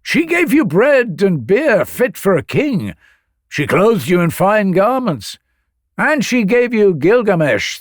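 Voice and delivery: high, impassioned remonstrance with sweeping pitch; calling down. A narrator's reading. Sun god defends the priestess from the heavens, calling down. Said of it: "the sun god called down to him".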